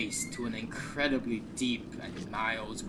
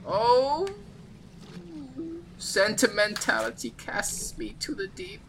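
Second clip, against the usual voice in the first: very high ghostly wail; lamenting ethereal dwarf; 12 semitones higher, 5 dB louder than usual. Acted. Ghostly dwarf longs to hold something again, high woeful wail. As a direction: wail woefully, drawing out each cry.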